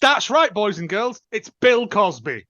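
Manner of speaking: put-on big announcer reveal to the kids; game show host.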